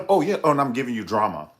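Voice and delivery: laughing, loud and high. Real, not acted. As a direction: burst out laughing. Laughing excited outburst.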